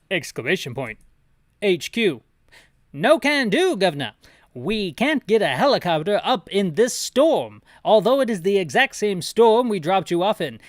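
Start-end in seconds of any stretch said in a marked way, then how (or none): 1.6-10.6 high, loud British officer refusing; a British HQ officer says no over the radio. Acted. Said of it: "Gotta get my British voice back up".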